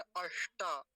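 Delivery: "अष्टा" slowly with retroflex ष and long आ; retroflex ष demo. Shown as a demonstration. Teacher pointing out the first word, retroflex ष. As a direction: dwell on the ष in "अष्टा". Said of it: "अष्टा में मूर्धन्य शकार है".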